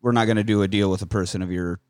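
lightly voiced mob boss. Retold low mob boss voice.

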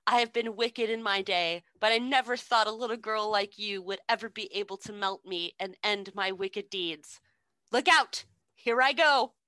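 lightly voiced wicked witch, rising at the end; dramatic reading of witch. The witch's last words read out to the co-host in a hint of a witch voice. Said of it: "which I have to read 'cause they're just great".

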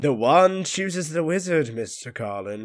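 slow, grave wand maker voice; lightly voiced old wizard, slow and solemn; old wand maker impression. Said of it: "Very good impression".

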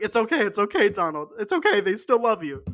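hammed-up Trump comforting himself; Trump soothing himself. Mocking Trump talking to himself, hammed up. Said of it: "like he's talking to himself".

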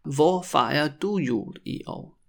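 measured, careful question; slow demonstration. Shown as a demonstration. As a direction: ask it slowly for repetition. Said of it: "when I say it really slowly".

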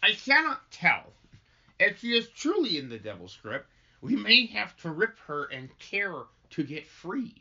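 lightly acted, grave minister; weighty stage reading with a firm opening; solemn minister. Minister answers about the afflicted child, grave. Script read in character, chat between.

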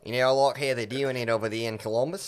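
comic mock Aussie accent; put-on Australian accent. Guest showing off his accents to the podcasters, mock Australian accent. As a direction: lay on a joking Australian accent. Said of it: "I'm actually pretty good at accents".

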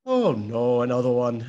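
mock-calm, unbothered quote; level, matter-of-fact resignation, imitated; calm Welshman. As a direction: play him lightly as an unfazed Welshman. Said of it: "you've just got the calmest of Welshmen".

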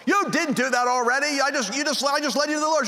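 high-pitched, flustered objection; indignant disbelief. Retold or imitated. Mentor to the woman he just led to the Lord, indignant disbelief. Mock quarrel with new convert.

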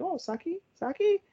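very high, soft startled squeak; caught off guard. Retold or imitated. The pair caught hugging, squeaking Saki's name. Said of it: "And they're like".

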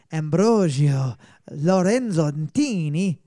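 slow, carefully sounded Italian name; careful foreign reading. Shown as a demonstration. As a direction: sound out the name Ambrogio Lorenzantini slowly. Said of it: "there's a lot of work you need to do on your German".

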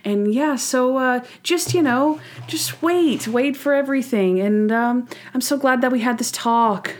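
lightly hammed-up, awkward fatherly lecture; hammed-up talk. Monk gives Julie the talk for Natalie to hear, hammed up. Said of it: "he is hamming it up".

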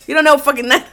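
scolding that collapses into laughter; laughing mock rebuke. Storyteller acting out her rant at a honking driver, laughing. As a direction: start telling them off, then crack up. Fumbles acted rebuke, cracks up.

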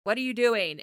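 slightly loud mock scolding; half-yell it like a parent from the couch; imitated yelling. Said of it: "He's just yelling".

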